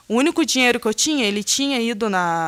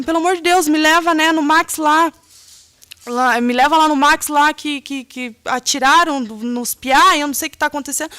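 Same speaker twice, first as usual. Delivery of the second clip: higher, louder desperate begging; urgent pleading; 5 semitones higher, 3 dB louder than usual. Retold or imitated. Begging the neighbour for a ride to the shooting, higher and urgent. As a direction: beg the neighbour to drive you now.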